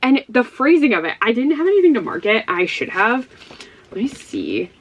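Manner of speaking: usual speaking voice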